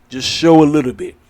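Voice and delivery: firm insistence; emphatic push. Real, not acted. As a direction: drive it home, punching show. Insisting on wrestlers showing blood.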